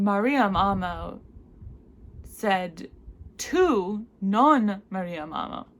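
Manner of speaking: slow, loud, blaming you; accusatory tone. Shown as a demonstration. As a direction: accuse them with the contrast. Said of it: "in a sort of accusatory tone".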